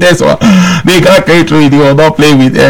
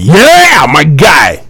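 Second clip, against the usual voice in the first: excited cheer; much slower than usual. Real, not acted. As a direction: burst out cheering. Host cheers after imitating caller.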